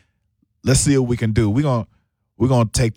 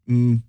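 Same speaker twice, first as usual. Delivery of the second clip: drawn-out, diplomatic mm; reluctant "mm" while picking a careful word; hesitant mm. Real, not acted. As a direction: hedge with a hummed mm. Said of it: "I'm using a lot of mms".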